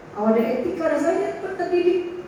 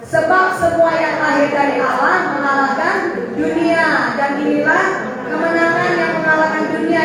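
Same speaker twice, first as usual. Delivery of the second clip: congregational reading. Real, not acted. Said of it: "Baca ya. Tiga, dua, satu".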